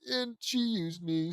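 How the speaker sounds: put-on high, falsetto girly voice; squeaky teen girl begging forgiveness; Sakura pleading. To Naruto, Sakura apologizes in a high squeaky voice. Reading Sakura's crying fanfic lines.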